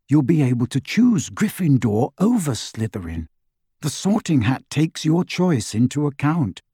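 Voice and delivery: a hint of a father reassuring his child; lightly acted, lilting fatherly reassurance; lightly voiced reassuring father. Father tells his son it doesn't matter, lightly reassuring.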